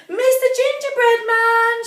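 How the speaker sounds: high, loud urgent shout; urgent call. Acted. Kitty crying out to Mister Gingerbread Man. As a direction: call him over in a hurry. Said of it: "she cried".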